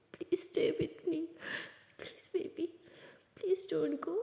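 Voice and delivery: slow, soft whispered please; whispered begging. Acted. Laali whispering to her girlfriend begging her to stay. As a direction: hush it, clinging to her.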